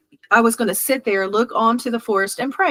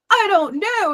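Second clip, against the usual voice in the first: retold yell; 11 semitones higher than usual. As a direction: act out an overwhelmed cry, held back. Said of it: "about the time I yelled that".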